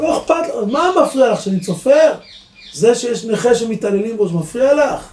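high-pitched mock yelling; half-shouted, high-pitched challenge; imitated protester's shout. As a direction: retell an indignant protester, pitched right up. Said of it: "הוא צועק".

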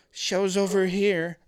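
easygoing, slow call to friends; playful invitation. Shown as a demonstration. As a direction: coax the boys over playfully. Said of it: "But it was the tone".

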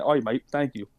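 a light, half-hearted Australian "oi, mate"; tossing off a quick Aussie thank you, barely put on; Australian accent. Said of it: "You doing the Australian accent was funny".

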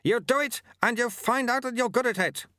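high, forceful character voice; growling. A narrator's reading. Sweeper pushes untrained apprentice onwards, growling. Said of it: "growled Lutze".

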